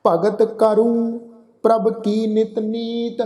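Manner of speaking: slow, drawn-out chanted reading of the verse; measured Gurbani path recitation; slow scripture recitation. Shown as a demonstration. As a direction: recite each line slowly and reverently. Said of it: "ਆਹ".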